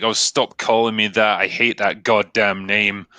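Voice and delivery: slow, laboured imitation of a movie line; deliberate, drawn-out mock line reading; quoted clunky line. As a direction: drag out each phrase like stilted dialogue. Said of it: "longer line that she gives".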